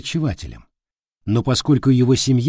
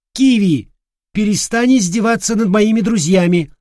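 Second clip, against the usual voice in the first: higher and louder reprimand; scolding; 9 semitones higher, 5 dB louder than usual. Acted. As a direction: tell the bird off firmly. Girl scolding the parrot. (строгий выговор птице)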